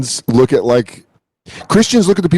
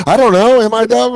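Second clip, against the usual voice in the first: meek mock voice; 10 semitones higher than usual. Retelling being pushed around by Israelis, high meek voice.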